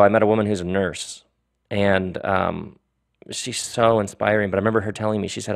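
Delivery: normal talking voice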